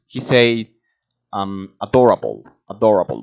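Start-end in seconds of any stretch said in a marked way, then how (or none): 1.8-3.2 "Adorable" with an American r; American pronunciation. Shown as a demonstration. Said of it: "the way an American would pronounce".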